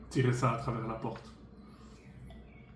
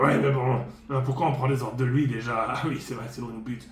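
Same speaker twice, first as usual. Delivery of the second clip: dwarf voice. Acted. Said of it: "pourquoi je parle comme un nain?".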